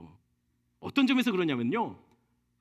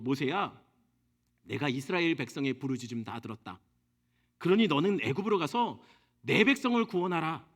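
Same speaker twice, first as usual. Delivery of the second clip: a lower, solemn commanding God; God's voice; 7 semitones lower than usual. Acted. God calling Moses to go to Egypt, lower and solemn.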